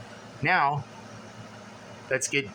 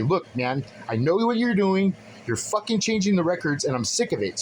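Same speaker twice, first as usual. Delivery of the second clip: retold confrontation; 4 semitones higher than usual.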